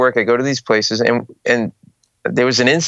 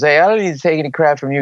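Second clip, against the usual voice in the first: quick, higher-pitched mock belligerence; drunk and angry; 7 semitones higher, faster than usual. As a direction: imitate a drunk picking a fight. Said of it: "He's all drunk".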